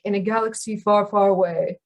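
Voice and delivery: lightly imitated film narrator; a hint of rich-voiced movie voiceover. Lecturer illustrating timbre, lightly imitating a movie voiceover. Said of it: "man speaking with a very rich voice".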